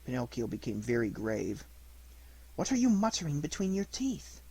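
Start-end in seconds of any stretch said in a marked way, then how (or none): 2.6-4.4 angry question. Acted. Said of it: "asked the fairy in an angry voice".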